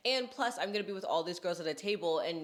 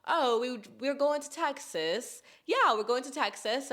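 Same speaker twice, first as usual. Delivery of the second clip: higher-pitched attempt at an Australian accent; 6 semitones higher, 4 dB louder than usual. Imitating two Australian girls she met, Australian accent. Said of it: "they talk like this".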